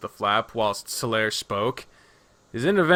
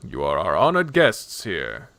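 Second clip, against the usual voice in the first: lightly voiced low, courteous host; gracious host; 6 semitones lower than usual. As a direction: offer hospitality in a lower voice. Solaire voiced, stating hospitality.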